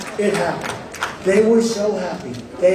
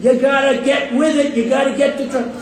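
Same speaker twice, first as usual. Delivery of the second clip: mock scream; 5 semitones higher than usual. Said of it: "I'm screaming".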